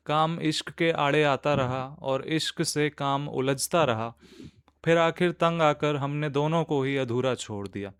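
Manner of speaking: measured Urdu nazm reading; poetry recitation. Acted. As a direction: recite line by line with pauses between phrases.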